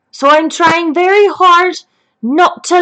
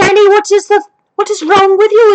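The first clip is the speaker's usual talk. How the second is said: higher, louder alarmed call to Annie; 6 semitones higher, 4 dB louder than usual. Retold or imitated. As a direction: demand what's wrong, rattled. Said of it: "I go in and I'm like".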